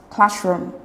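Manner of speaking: classroom, weight on class; stress on CLASS. Shown as a demonstration. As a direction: say classroom with the first part strongest. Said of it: "the stress is on class".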